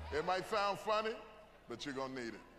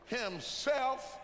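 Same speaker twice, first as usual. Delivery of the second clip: call for response; 6 semitones higher, much slower than usual. Acted. Preacher calls for congregation response.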